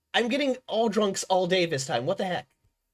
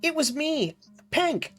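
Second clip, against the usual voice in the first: higher, proud villain announcement; dramatic villain reveal; 8 semitones higher, slower than usual. Pretend. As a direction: announce yourself like an anime villain. Copies Dio meme.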